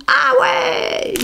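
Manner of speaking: very high, drawn-out squeal; hammed-up wow in a squeaky head voice; mock amazement. S'extasie pour rire sur les perles. (faux émerveillement, voix suraiguë)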